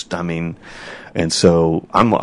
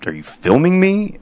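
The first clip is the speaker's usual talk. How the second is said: mock disbelief, pitched much higher; incredulous; 12 semitones higher than usual. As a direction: retell the shocked, high-pitched question. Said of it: "So I'm like".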